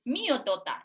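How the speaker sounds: "Mío, tota" with a mild cross fall on mío; a touch of toddler annoyance, falling firmly; mock angry. Shown as a demonstration. Speech therapist voicing an angry toddler, lightly.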